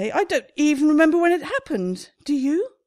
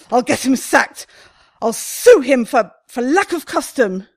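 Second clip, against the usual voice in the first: indignant threats; 6 dB louder than usual. Acted. Building threats against warden.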